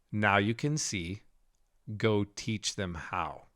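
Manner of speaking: slow, soft solemn commission; gentle, slow voice of a holy figure. Retold or imitated. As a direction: speak it slowly like a blessing. Holy figure speaks to him.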